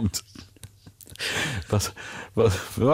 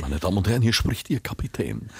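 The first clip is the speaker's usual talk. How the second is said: pilot cockpit headset; 3 dB quieter than usual. Retold or imitated. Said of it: "das steckt da drin".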